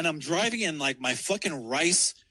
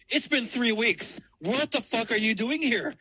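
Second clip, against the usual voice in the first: indignant confrontation; 6 semitones higher than usual. Retold or imitated. Acted confrontation with his ex.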